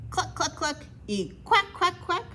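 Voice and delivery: happy mock farm noises; animal noises. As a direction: play the farm sounds cheerfully. Animals working happily together.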